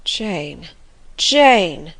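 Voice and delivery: bitter sadness. A narrator's reading. Master pleads with Jane after her refusal, bitterly sad. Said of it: "such an accent of bitter sadness".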